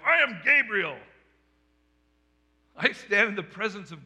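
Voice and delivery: booming angel. Retold or imitated. Angel Gabriel to Zechariah in the temple, a loud proclamation. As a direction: announce yourself with heavenly authority.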